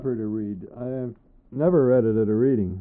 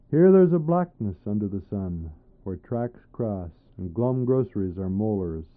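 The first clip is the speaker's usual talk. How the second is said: measured, rhythmic poem reading; poetry reading. Acted. Poet reading his poem to an audience, measured and rhythmic. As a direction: let each image land in turn.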